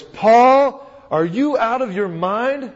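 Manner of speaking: loud voice. A narrator's reading. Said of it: "said with a loud voice".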